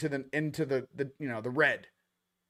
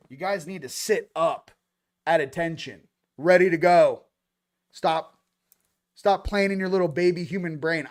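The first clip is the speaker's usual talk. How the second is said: rallying shout; 2 semitones higher, 7 dB louder than usual. Real, not acted. Rallying the audience.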